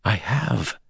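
put-on frenzied young man. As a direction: answer with frenzied eagerness. Evan frenzied.

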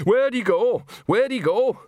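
high, loud and urgent. Acted. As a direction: demand it in a hurry. Nanny urgently searching.

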